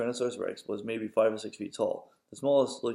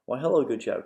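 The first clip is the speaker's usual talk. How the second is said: a bright, slightly louder greeting; mild cry; 2 semitones higher, 5 dB louder than usual. Acted. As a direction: call out a cheery hello, lightly raised. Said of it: "cried a small green pterodactyl".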